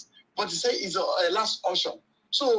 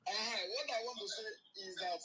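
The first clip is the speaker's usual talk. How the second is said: caller heard over a phone line; distant, thin phone speaker voice; 4 dB quieter than usual. Real, not acted. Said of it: "you're on speaker now".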